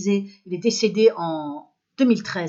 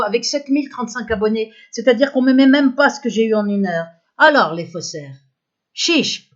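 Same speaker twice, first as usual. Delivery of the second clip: loud, higher-pitched indignant tirade; angry rant; 3 semitones higher, 9 dB louder than usual. Real, not acted. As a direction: rail loudly at the cheats. Dénonce la fraude sur ses vidéos. (tirade indignée, forte et montée dans l'aigu)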